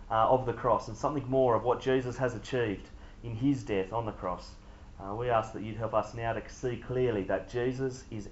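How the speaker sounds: low, soft praying voice; prayer. Real, not acted. Preacher leading the room in prayer before his talk, quiet prayer. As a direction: pray quietly and reverently.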